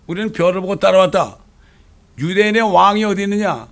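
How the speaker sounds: proclaiming Magi. Acted. Preacher voices the Magi.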